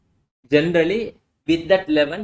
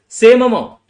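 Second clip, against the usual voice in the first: much louder and higher, punching SAME; emphatic shout; 7 semitones higher, 11 dB louder than usual. Shown as a demonstration. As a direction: hammer "Same amount" home, driving SAME hard. Teacher hammers the repeated point.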